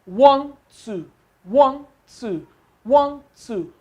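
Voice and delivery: rhythmic count, each one stressed; counting out syllables. Shown as a demonstration. Teacher counts syllables back from the end, rhythmic. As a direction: tap out one two like a beat. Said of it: "The second from the back".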